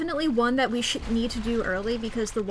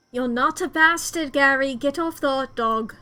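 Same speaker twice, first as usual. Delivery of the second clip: raised-voice acted scolding; firm, louder telling-off; exasperated call; 5 dB louder than usual. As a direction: call up sternly to a misbehaving friend. Character calling up to Gary.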